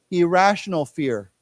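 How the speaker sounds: "Irrational fear" said clearly, word by word; word modelling. Shown as a demonstration. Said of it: "why don't we say this together".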